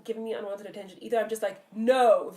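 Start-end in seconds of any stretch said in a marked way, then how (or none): 1.7-2.3 a firm, loud "No" to shut him down. Retold or imitated. To a man staring at her in the street, a loud firm no. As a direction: bark out "No" loudly, flat and final. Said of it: "very loudly to them".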